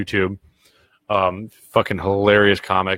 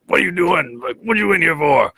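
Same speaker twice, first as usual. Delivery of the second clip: high, raised mock inmate voice; incredulous inmate; 9 semitones higher than usual. Inmate grilling the bowl-cut kid, mock incredulous and high. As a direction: play the inmate, higher and pushier than your own voice.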